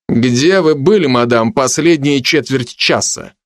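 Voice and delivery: restrained stern questioning. Acted. Magician interrogates madam about her whereabouts, mildly stern. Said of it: "строго спросил я".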